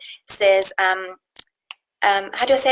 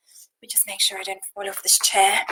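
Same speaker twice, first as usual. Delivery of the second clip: whispered aside; 2 semitones lower than usual. Real, not acted. Whispered aside while slipping on chair.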